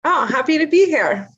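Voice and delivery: polite delight that rings a little false; fake-sounding enthusiasm. Real, not acted. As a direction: meant sincerely but coming off fake. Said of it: "That sounded so fake".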